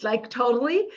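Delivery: a light, high hint of Valley Girl, laughing. Host teasing New Yorkers, lightly playing a Valley Girl. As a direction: toss it off like a bubbly Valley Girl. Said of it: "I can talk really Valley Girl".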